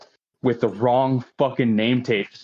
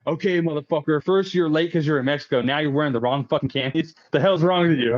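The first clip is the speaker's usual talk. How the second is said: higher-pitched mock exasperation; imitated scolding; 5 semitones higher than usual. Superiors chew out the new reservist, mock scolding. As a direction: tick off the offences as a fed-up superior.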